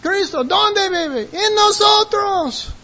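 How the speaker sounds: high, stretched-out preacher's chant; rallying call-and-response. Retold or imitated. Preacher showing his new version of the chant, high rallying calls. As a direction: call high and draw out the last answer. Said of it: "now I go".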